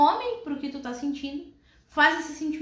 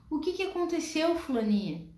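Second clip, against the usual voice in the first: calm mother; 2 semitones higher than usual. Acted. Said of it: "olha nos olhos daquela criança".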